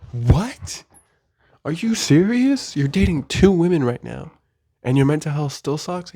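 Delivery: high-pitched disbelief, drawing out the question; mock incredulous. Imagined listener reacting to him dating two women, incredulous. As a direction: play a stunned listener, voice climbing.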